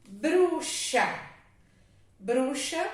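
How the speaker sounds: Bruxa with the x said as sh, clearly. Shown as a demonstration. Teacher repeating Bruxa to show x sounds like ch. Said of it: "O X tem som de C H".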